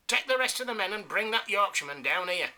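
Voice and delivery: high, loud enraged command; furious order. Acted. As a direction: roar the order at the lieutenant.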